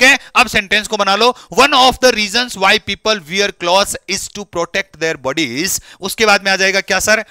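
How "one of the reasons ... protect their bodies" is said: slow, word by word textbook reading; slow read-aloud. Acted. Teacher reads the textbook sentence to his students, slow and deliberate.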